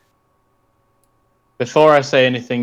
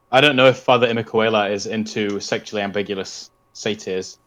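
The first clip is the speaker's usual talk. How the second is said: out of breath; 3 semitones lower than usual. Real, not acted. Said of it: "I'm out of breath".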